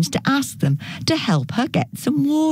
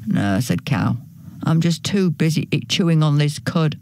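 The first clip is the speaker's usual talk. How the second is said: lower, lazy cow voice; 4 semitones lower than usual. Acted. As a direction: drop low for the cow. Cow refuses, voiced character.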